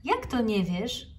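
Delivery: surprised teacher. Acted. Teacher Okapi astonished by the snail's answer, slow surprised question. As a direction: stretch it out in disbelief. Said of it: "zdziwiła się pani Okapi".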